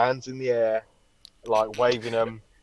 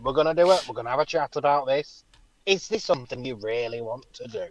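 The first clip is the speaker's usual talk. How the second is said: a mild fussy risk assessor, ending much higher; clipboard Brian voice; 4 semitones higher than usual. Retold or imitated. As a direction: play the cautious inner clipboard guy. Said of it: "Brian in your forehead with a clipboard going".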